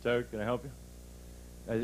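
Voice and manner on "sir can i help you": lower, flatter copy of the salesman's greeting; clumsy copycat. Retold or imitated. Comic voicing the Polak copying the salesman, lightly flat. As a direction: echo the salesman's line without his polish. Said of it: "He said".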